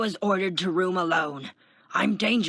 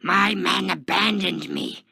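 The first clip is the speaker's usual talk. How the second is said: loud, raised-pitch indignant yell; screamed protest; 6 semitones higher, 8 dB louder than usual. A narrator's reading. Taskmaster protests to the jeering inmates, screaming. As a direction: scream it over the jeers. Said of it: "Taskmaster screamed".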